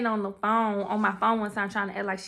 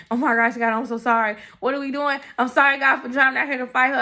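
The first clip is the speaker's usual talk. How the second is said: loud, pleading apology to God; 2 semitones higher, 5 dB louder than usual. Retold or imitated. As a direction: beg God out loud for forgiveness. Begging God in the car.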